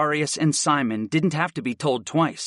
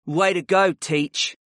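snorting; 4 semitones higher, slower than usual. Acted. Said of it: "Darius snorted".

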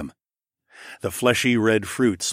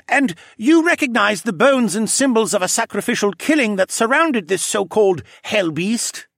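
pressing creature voice; 13 semitones higher, 6 dB louder than usual. Acted. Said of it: "Cadahy pressed".

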